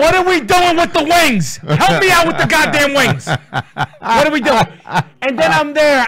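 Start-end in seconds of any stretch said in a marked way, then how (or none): 0.0-4.7 panicked. Retold or imitated. Panicked husband in pad aisle.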